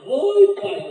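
a daughter jolted awake by her father at the door; second oi, pai yelped in surprise; startled greeting. Retold or imitated.

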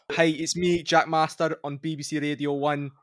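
a lightly voiced Scottish radio DJ announcing his show; hammed-up Scottish radio host intro, mostly in his own voice; DJ impression. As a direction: do a cheeky Scottish accent as a radio DJ. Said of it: "my DJ impression's better than that".

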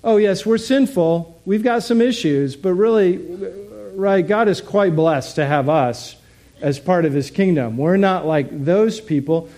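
a preacher mocking smug believers; smug self-satisfied voice. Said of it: "we say".

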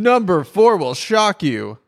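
clickbait video narrator. Pretend. Mock clickbait teaser line.

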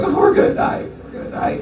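whispered mock terror, fading away; breathy whispered fake panic. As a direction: hiss it like a scared sailor, half laughing. Disciples panicking, mocked.

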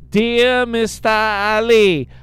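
hammed-up read of a scam letter; reading a scam email. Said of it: "It's broken English, her email".

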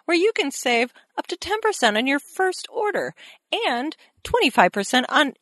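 mock ad read; imitating a podcast ad read; promo voice. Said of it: "the promo voice".

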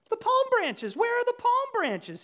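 high, loud frantic shout. A narrator's reading. Donkey shouting at the market crowd, high and loud. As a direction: yell it out, demanding his welcome. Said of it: "he shouted".

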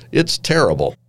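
half-hearted yell from an irate editor; retold yell. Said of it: "he yelled".

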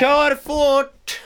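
high, loud urging; loud impatient "go fast"; impatient shout. Real, not acted. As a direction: hurry them up loudly.

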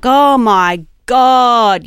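drawn-out, slow exasperated groan of words; retold annoyance. Driver retelling being stuck at roadworks, exaggerated annoyance. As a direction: stretch it out, fed up, as a retelling. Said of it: "just annoyed at these roadworks".

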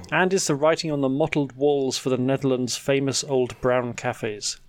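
scripted, measured headline delivery; lilting podcast news intro; news headline read. Acted. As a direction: read out the week's stories as a presenter. Reads the week's headlines.

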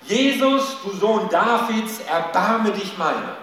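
loud, high, slow cry for mercy; voice rising from the crowd. Retold or imitated. Preacher voicing the beggar rising above the crowd, loud cry. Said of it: "erhebt sich plötzlich ... eine Stimme".

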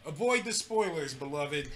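measured, weighty sign-off; grave little catchphrase, dropping at the end; significant-sounding catchphrase. Pretend. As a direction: deliver it like solemn wise counsel. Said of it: "it sounded so significant".

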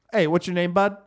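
lightly imitated Italian Chicago host; Italian Chicago accent. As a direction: call out names with a hint of Italian Chicago. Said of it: "Italian Chicago thing that it sounded like Butt".

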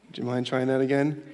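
even, unhurried and polite, as if nothing happened; a mild hint of a patient father; calm. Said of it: "here come the calm steps of Dad".

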